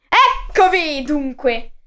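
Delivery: yelled. Acted. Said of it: "urlò il guerriero".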